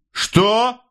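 sharp high shouted "Что?"; officer's shout. A narrator's reading. Officer shouting at the mother, sharp and high. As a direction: bark the question at her. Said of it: "крикнул офицер".

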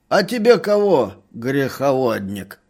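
loud, high scolding crone; angry lisping old woman. A narrator's reading. Old woman scolding the merchant who grabbed her, loud and high. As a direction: scold him like a cranky lisping granny. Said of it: "старуха всё ещё шепелявила".

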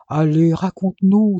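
eager wheedling; pleading. Acted. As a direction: beg him to tell. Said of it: "supplia Jérémie".

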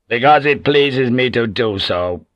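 slow, a touch of lordly harshness; a curt rebuke, mildly hard; harsh. Acted. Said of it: "Toranaga said harshly".

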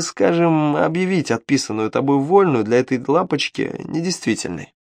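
scheming little devil voice; sly imp voice. Acted. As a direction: tempt him, sly and sneaky.

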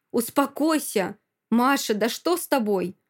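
exasperated appeal; alarmed restraining. Acted. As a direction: try to calm her down, agitated. Boyfriend restrains her in a fight.

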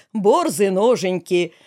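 борзы stretched out in sing-song; mock folk lament. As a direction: draw out "борзы" like a wailing ballad. Продолжает шуточное народное причитание. («борзы» нараспев, протяжно)

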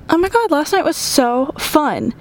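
high, gushing airhead voice; oblivious friend. Retold or imitated. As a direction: gush about the night, clueless. Imitating friend Angela, oblivious.

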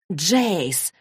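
understated warning call. Acted. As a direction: caution him by name. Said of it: "предостерегающе начала Изабель". (предостерегающе)

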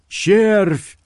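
high, loud cry. A narrator's reading. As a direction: call the worm with a cry. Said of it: "вскричал Карстерс".

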